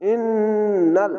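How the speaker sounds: very slow ইন্নাল, the doubled ন hummed long through the nose; wajib ghunna. Shown as a demonstration. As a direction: hold the ন্ন nasally. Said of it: "এখানে ওয়াজিব গুন্না". (ওয়াজিব গুন্না দিয়ে ইন্নাল)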